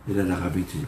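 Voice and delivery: usual speaking voice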